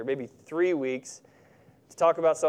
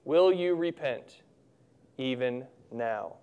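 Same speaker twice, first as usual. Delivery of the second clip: gentle but firm; slower than usual. Acted. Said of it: "gentle but firm".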